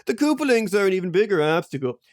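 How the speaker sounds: high, fast fed-up groan through laughter; mock exasperation; exasperated sigh. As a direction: grumble at a dropped fork. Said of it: "I drop a fork".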